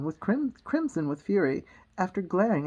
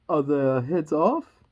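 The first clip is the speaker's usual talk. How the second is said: loud, slow imperious shout; shouting Queen; 3 semitones lower, 5 dB louder, slower than usual. Acted. Queen checking on the soldiers, shouting. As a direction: shout the question regally. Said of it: "shouted the Queen".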